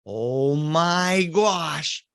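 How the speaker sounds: very slow, drawn out oh my gosh; slow awed gasp. Retold or imitated. Uncle peeking at the house, slow awe. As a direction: stretch each word in dread.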